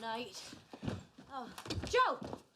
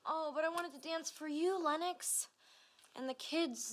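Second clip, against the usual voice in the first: put-on old Southern woman; 3 semitones lower than usual. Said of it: "talking like an old Southern woman".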